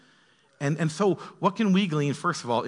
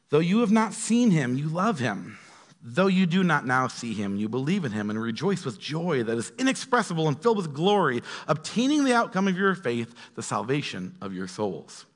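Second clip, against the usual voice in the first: emphatic read-aloud with rising starts and falling phrase ends; expressive Bible reading; scripture reading. Acted. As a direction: read the letter out to the congregation.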